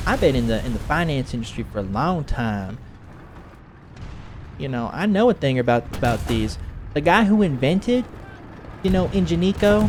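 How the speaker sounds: lightly put-on Southern twang; Southern woman. Woman claiming industry know-how, slightly Southern imitation. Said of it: "making her Southern a little bit".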